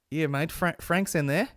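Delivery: a hint of the casual staff guy; imitating staff guy. Retelling the staff guy to audience, lightly voiced casually. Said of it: "the way he's like".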